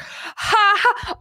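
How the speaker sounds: high, mock-excited "ha ha"; all-caps mock laugh. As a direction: read it like all-caps typing. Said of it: "all caps".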